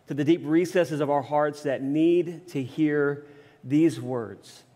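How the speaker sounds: low-pitched, measured pastoral prayer. Real, not acted. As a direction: pray reverently on behalf of the congregation. Opening prayer before the sermon.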